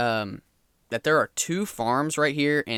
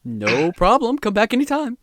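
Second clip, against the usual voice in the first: townsman goodbye; 3 semitones higher than usual. Acted. GM voices townsman NPC.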